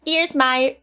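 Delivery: slow, deliberate British; attempted British accent. Shown as a demonstration. Student showing progress, slow attempted British accent. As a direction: try it in careful British. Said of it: "in a British accent all week".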